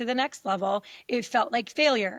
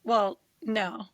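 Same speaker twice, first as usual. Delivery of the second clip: laughing admission; 2 semitones lower than usual. Retold or imitated. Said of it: "'Cause I was like".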